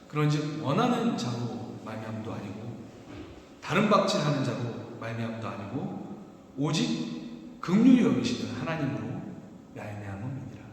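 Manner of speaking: measured, solemn verse reading; scripture reading. Shown as a demonstration. Pastor reading the chapter's key verse to his church, solemn. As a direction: read the key verse deliberately, with weight. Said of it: "제가 읽어드리겠습니다".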